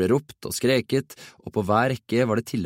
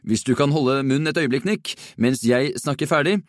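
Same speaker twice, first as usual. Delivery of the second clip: higher, annoyed reprimand; irritated; 5 semitones higher than usual. A narrator's reading. Inspector tells Nick off before the assembly, irritated. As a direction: scold with contained irritation. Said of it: "kikket irritert".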